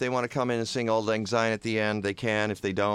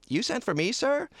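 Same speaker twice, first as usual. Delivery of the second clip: Clarence; 11 semitones higher than usual. Acted. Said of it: "send for Clarence".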